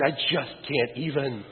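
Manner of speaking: slow, drawn-out mock teen despair; overwhelmed young person. Mimicking a young person who just can't cope. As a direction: sigh it out like a teen who has given up. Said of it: "You ever heard a young person say".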